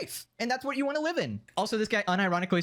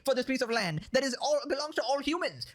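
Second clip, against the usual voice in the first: mocking whiny idealist, pitched up; imitating an idealist, higher; mock leftist voice; 3 semitones higher than usual. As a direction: sneer it like a naive utopian. Mocking the open-borders argument.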